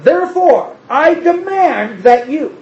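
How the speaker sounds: flex supreme power over them; a pretend overbearing God threatening his people; mock domineering God. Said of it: "that's not what he says here".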